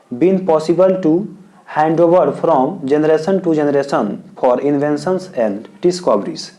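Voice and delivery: slow, word by word dictation; dictating an answer slowly to students; dictation pace. Shown as a demonstration. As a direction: read it out slowly so students can write. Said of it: "तो answer लिखेंगे yes".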